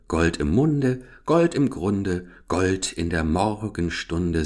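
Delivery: slow, sing-song little rhyme; buttercup's rhyme, slow. Acted. The buttercup recites her rhyme to Gerda, slow and sing-song. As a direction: savour each golden line.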